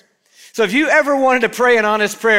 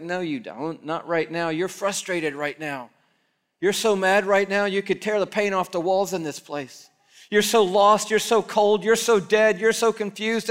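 soft, gentle voice of God, far quieter; God answering softly; 4 dB quieter than usual. Pretend. God gently seeing through a fake prayer, hushed and knowing. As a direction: lay it down tenderly, almost under the breath. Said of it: "He's like".

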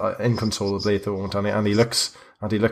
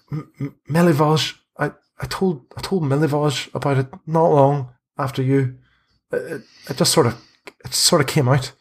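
put-on higher, stammering boy voice; snivelling confession; 5 semitones higher than usual. Snivelling boy confesses to priest, halting. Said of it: "snivelling away".

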